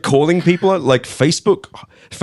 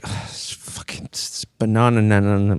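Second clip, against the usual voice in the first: mock tech pitch; 4 semitones lower, 5 dB quieter than usual. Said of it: "And they're like".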